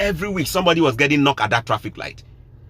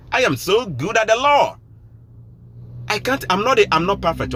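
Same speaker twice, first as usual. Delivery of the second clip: heated rant; 10 semitones higher than usual. Real, not acted. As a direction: lecture the viewers at full blast. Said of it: "watch your tone".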